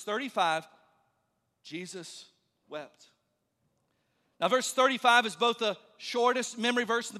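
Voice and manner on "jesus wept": very soft, low and grave; hushed solemn reading. Real, not acted. Preacher reading the shortest verse to his congregation, hushed and solemn. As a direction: let the two words drop low and quiet.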